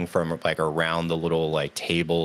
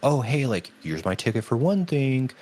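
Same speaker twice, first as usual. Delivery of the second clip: mocking rich fans; 8 semitones higher than usual. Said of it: "people in front of me would be like".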